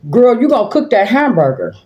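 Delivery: high, disbelieving "you gonna cook that"; mild mock incredulity; incredulous question. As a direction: tease her with mock disbelief. Grandma questioning hesitant girl.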